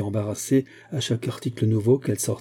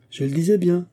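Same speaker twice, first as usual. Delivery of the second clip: a raised cry, pitched higher; triumphant cry; 7 semitones higher than usual. A narrator's reading. Madame Bourdelais crying out to the ladies that she was right, raised. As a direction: crow it out, proven right. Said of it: "cria madame Bourdelais".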